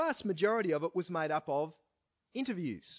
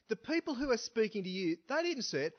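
emphatic claim; 3 semitones higher than usual. Retold or imitated. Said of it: "He's saying".

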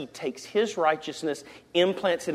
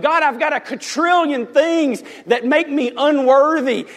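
raised, higher pleading call; mock scream upward; 8 semitones higher, 4 dB louder than usual. Sinner protests to God above, mock scream. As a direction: call up to heaven, only half screaming. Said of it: "I scream up".

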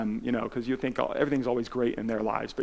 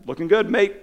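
breezy, louder call in passing; hearty greeting; 7 semitones higher, 6 dB louder than usual. Retold or imitated. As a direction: toss it off like a big friendly star. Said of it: "he's like".

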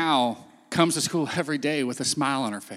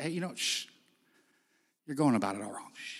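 much softer, shushing; hushing; 4 semitones lower, 13 dB quieter, faster than usual. Retold or imitated. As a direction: quietly silence someone. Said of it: "turned to him and said".

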